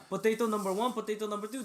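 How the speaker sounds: lightly voiced African accent, singsong; a hint of an African accent, rising. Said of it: "do you know the Cobra guy".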